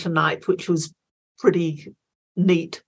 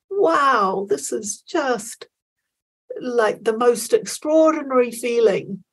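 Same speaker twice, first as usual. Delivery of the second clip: awestruck inner thought; 4 semitones higher than usual. Retold or imitated. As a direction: relive the wonder of the stadium cheers, breathless with awe. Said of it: "it was just like".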